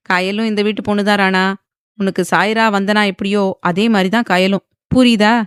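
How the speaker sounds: firm and pointed, rising on the last question; lightly voiced aunt pressing the point; firm emphasis. A narrator's reading. Aunt pressing the nephew to understand, firm and pointed. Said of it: "அழுத்தமாக மோகனா கேட்க".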